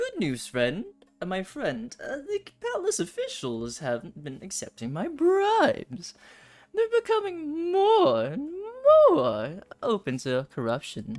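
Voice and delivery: arrogant, superior tone. Patrician plotting a scheme with a friend in a seaside cabin, haughty voice. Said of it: "I think this was the haughty voice".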